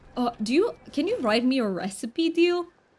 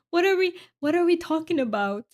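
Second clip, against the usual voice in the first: baffled; 7 semitones higher than usual. Real, not acted. Baffled by a chat word.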